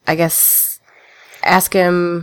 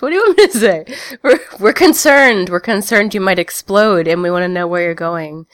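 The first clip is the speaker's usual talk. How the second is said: worried character. Acted. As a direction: press him, worried and urgent.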